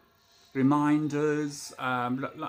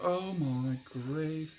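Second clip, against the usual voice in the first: exasperated; much slower than usual. Retold or imitated. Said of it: "And I thought".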